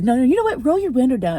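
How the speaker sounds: mock yell, still insisting; imitating angry father. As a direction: repeat the order like the driver who won't let go. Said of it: "he starts to calm down".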